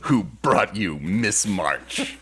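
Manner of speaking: slow, dramatic trailer announcer; movie trailer voice. Pretend. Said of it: "Can you put on the thing though".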